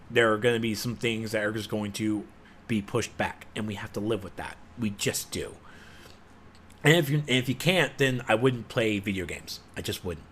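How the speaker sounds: quiet shrug to viewers; subdued resignation. Real, not acted. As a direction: let the anger drain out. Resigned calm after rant.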